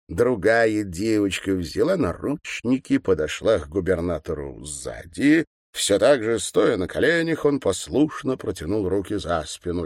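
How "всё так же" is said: ordinary delivery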